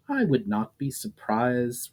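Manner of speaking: cool. Acted. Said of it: "the demon's cool response".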